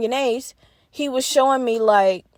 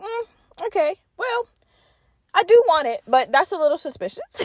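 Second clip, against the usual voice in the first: wary hesitation; 7 semitones higher than usual. Retold or imitated. Narrator to the dealer, a hammed-up wary hesitance. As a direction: sound tempted but suspicious. Her own wary reply retold.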